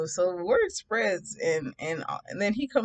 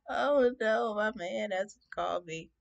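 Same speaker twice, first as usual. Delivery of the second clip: mock distraught; 5 semitones higher, slower than usual. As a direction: lament slowly in hammed-up dismay. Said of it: "I was just so distraught".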